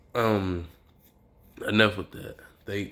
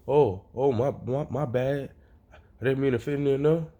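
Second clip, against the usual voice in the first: higher-pitched, stammering nervous apology; mildly scared apology; 6 semitones higher than usual. Acted. Deku apologizing to a powerful being, mildly scared. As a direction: stumble over the words, slightly scared. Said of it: "Deku low-key kinda scared".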